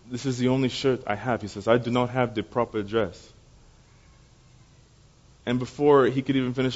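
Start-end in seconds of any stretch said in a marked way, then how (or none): 0.1-1.4 imitated thick Ghanaian accent, softer. Ghanaian boy explains his clothes to the speaker, thick accent. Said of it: "in his very thick accent". 1.7-3.3 imitated thick Ghanaian accent; a boy's careful words in a thick Ghanaian accent. Ghanaian boy repeats his reason to the speaker, thick accent. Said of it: "in his very thick accent".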